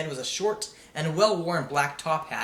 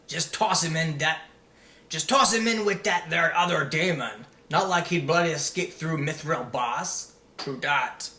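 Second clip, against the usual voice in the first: lightly voiced coarse jailer; a hint of a rough guard dumping the prisoner. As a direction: toss the prisoner in like rubbish. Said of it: "the voices of two more men".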